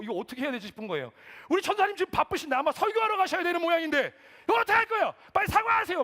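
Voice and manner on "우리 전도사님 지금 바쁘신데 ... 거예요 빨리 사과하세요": yelling high and very loud; angry attendant. Retold or imitated. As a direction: berate the driver on someone's behalf at full volume. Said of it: "소리를 막 버럭버럭 지르는". (화난 주차요원이 버럭 고함치는 말투)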